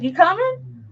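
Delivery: put-on young coworkers calling. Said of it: "They're like".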